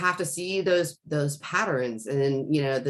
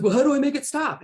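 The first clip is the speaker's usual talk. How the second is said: imitating young son; 11 semitones higher, 5 dB louder, faster than usual. Son's plea, quoted by mother.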